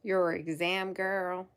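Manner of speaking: put-on playful southern US accent; put-on southern reassurance. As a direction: lay on a light southern accent. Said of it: "feel the need to do a southern accent".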